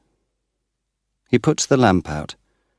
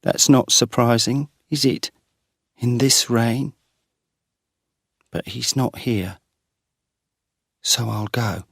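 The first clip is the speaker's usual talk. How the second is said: lightly voiced tired wife, higher; weary young woman; 6 semitones higher than usual. A narrator's reading. Soaked wife answers Geoffrey in the rain: lightly voiced, weary. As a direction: brush off his concern and leave.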